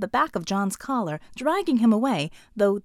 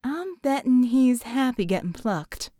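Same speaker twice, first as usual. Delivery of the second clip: dry remark. Acted. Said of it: "Mel remarked dryly".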